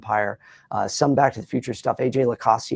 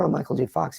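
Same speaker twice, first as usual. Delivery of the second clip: Michael J. Fox voice; 3 semitones higher than usual. Shown as a demonstration. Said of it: "So if I go over here".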